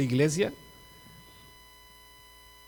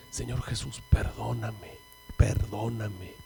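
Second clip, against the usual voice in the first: whispered plea under the breath; very quiet prayer; 8 dB quieter, slower than usual. Retold or imitated. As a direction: murmur a furtive prayer, barely voiced. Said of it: "lo dije bien bajito". (oración susurrada, bien bajito)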